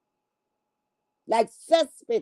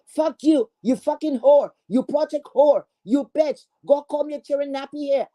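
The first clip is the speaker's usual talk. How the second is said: mock rant; 5 semitones higher than usual. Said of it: "it go up and down".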